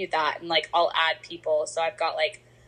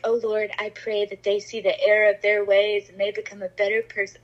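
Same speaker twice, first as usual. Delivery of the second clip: hammed-up, holier-than-thou pleading; mock-pious prayer; 2 semitones higher than usual. Friend parodying a judgmental prayer for her exes, mock-pious. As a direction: pray over someone as if they are the sinner. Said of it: "it's not like that".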